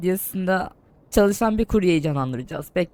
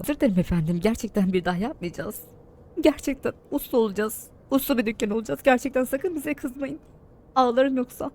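put-on whiny childish voice; 6 semitones higher than usual. Pleading apology to customer.

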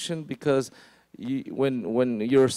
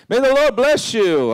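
bright, higher and louder blessing; cheery greeting; 9 semitones higher, 7 dB louder than usual. Retold or imitated. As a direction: greet him with a big show of joy. Saul greets Samuel cheerfully.

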